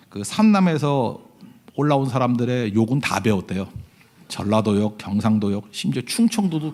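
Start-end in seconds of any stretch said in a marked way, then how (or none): none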